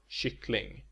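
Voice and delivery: "kyckling" with Swedish pitch accent two. Shown as a demonstration. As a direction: say "kyckling" as the stressed final word, in accent two. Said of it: "with accent two".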